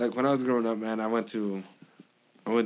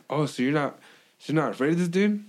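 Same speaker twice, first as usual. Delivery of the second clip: higher, lightly voiced girl asking; imitating the cousin; 5 semitones higher than usual. Girl asking if he fears her cousin, lightly voiced. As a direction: lift the pitch for the girl's question.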